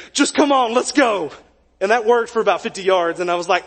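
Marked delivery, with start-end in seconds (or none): 0.1-1.3 raised, eager push; urging teammate. Retold or imitated. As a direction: hurry him along, higher. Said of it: "I'll never forget him saying".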